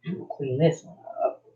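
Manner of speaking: mumbling around pins held in lips; pins in mouth. Real, not acted. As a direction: talk with pins clamped in mouth. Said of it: "I only speak a special language when I have pins in my mouth".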